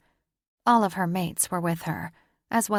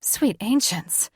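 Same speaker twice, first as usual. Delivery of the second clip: slow, breathy awe; breathed out; 4 semitones higher, slower than usual. Acted. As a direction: let the words out on a breath. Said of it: "she breathed".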